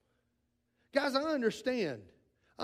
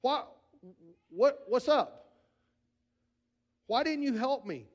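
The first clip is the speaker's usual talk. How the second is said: mock anguished cry to God; 4 semitones higher, 3 dB louder, slower than usual. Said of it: "what do we do naturally".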